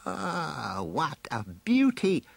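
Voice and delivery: slow, high villain gloating to himself; Skeletor. A narrator's reading. Villain admires the beast on his spy scan, slow high gloat. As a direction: savour it in a high, evil voice. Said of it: "Skeletor muttered to himself".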